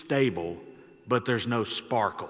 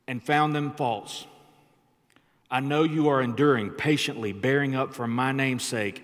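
louder, raised reading of Revelation; scripture reading; 3 dB louder than usual. Acted. Pastor reading scripture aloud to the church, proclaiming. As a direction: proclaim the verses to the standing church.

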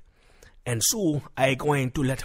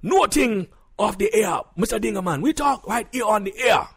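raised, high, insistent voice; indignant refusal; 6 semitones higher, 5 dB louder than usual. Acted. Husband refuses to take the quarrel off air, indignant. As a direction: refuse loudly and hotly.

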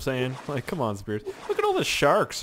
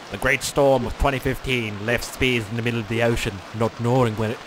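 storm documentary narrator. Pretend. Narrates own disaster like a documentary.

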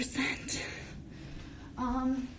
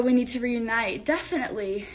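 out of breath; 2 semitones lower than usual. Real, not acted. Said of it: "I'm out of breath now".

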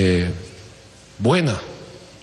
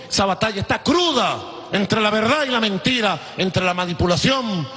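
fiery oratory; 3 semitones higher than usual. Real, not acted. Fiery speech to party crowd.

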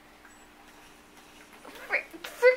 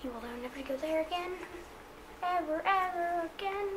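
menacing; 8 dB quieter than usual. Real, not acted. Threatening enemy, suddenly soft and fast.

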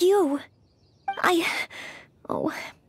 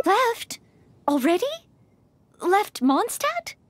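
shocked disbelief; 6 semitones higher, slower than usual. Acted. Noelle shocked guest has gone.

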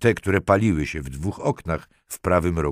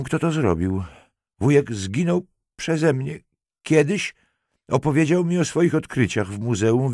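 higher, upset woman's voice, acted; frightened, tearful confession; 6 semitones higher, 3 dB louder than usual. A narrator's reading. Weeping Halinka confesses to detective about her uncle, frightened. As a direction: force the words out through tears. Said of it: "z trudem wypowiedziane słowa".

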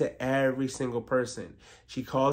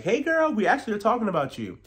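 high, fast mock gossip voice; mock sugary greeting; 9 semitones higher, 4 dB louder than usual. Mocking the women greeting Ashley, high and sugary. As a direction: squeal it up high like fake friends.

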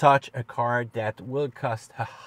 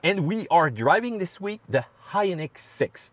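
put-on thick French accent, a bit higher; 5 semitones higher than usual. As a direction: lay on a playful French accent. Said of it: "Do you like my French accent".

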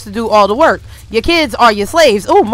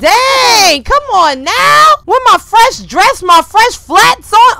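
put-on higher, slow whiny old lady voice; drawn-out higher complaining granny; put-on grandma complaint; 10 semitones higher, 4 dB louder, slower than usual. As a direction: play the fussy grandma in her nice outfit. Voicing grandma Sim's complaint.

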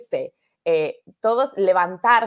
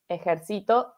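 ejercito with the weight on CI, ejerCIto; stress on CI; 3 dB quieter than usual. Shown as a demonstration. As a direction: stress the third syllable of ejercito, e-jer-CI-to. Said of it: "en la sílaba tónica".

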